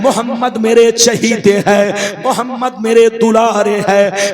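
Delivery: ringing divine proclamation; full-force preaching. Retold or imitated. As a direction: stretch the key words in sermon cadence. Preacher voices God's answer.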